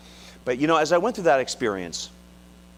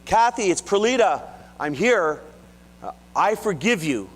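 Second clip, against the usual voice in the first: gentle forgiving; 8 semitones higher than usual. Retold or imitated. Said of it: "went up to her ear".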